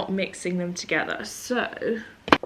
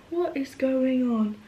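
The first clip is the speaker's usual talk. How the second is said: high, slow disbelieving question; drawn-out repeat; 7 semitones higher, slower than usual. Real, not acted. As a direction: stretch out each word, pitched up. Drawn-out repeat about her fringe.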